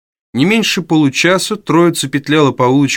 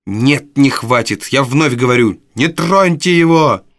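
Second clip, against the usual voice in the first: defiant Nancy; 2 semitones higher, slower than usual. Acted. Nancy repeats her defiance.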